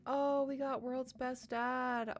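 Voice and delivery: high, slow, delighted; thrilled. Real, not acted. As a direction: savour the good ending. Player thrilled at ending.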